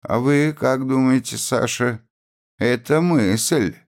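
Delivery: приподнятый, живой вопрос повыше; оживлённо. A narrator's reading. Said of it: "оживлённо сказала". (оживлённо, с живым интересом)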